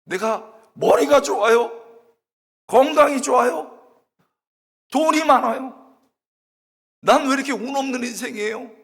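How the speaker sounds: re-enacted loud, high-pitched wail; tearful wailing. Student weeping before God over bad luck, wailing complaint. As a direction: bawl out bitter complaints. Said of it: "엉엉 울면서".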